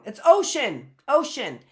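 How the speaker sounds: ocean with a sh sound, OH-shun; ocean said right. Shown as a demonstration. Teacher showing the class how to say ocean. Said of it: "'Cause otherwise it would be ocean".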